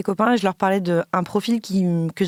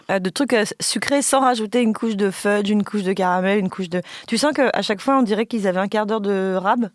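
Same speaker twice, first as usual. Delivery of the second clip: talking with mouth full; words through a mouthful of cake; messy loud eating. Real, not acted. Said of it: "je vais parler la bouche pleine". (la bouche pleine)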